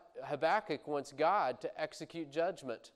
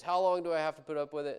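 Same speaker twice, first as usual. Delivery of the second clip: mock cry out; 3 semitones higher, 6 dB louder, faster than usual. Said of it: "shouting out a lament to God".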